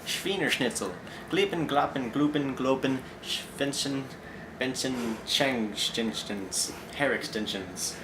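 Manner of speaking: mock German babble; fake German gibberish. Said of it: "if you didn't understand that".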